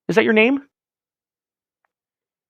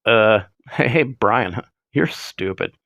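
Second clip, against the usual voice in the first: much lower, dopey cartoon teen voice; lightly mock a dim cartoon teen; Butthead voice; 7 semitones lower, much slower than usual. Prank caller in a dopey cartoon voice insults the host. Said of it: "Someone should call in his butthead".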